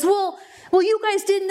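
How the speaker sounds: retold indignant outburst; so angry. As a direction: imitate her sputtering angry objection. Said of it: "'cause she's so angry".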